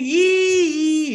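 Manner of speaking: high, loud mock squeal of "ee"; mock scream. Teacher mocks YouTubers screaming in class, high mock squeal. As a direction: imitate fans shrieking "ee" for a moment. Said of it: "Everybody is screaming".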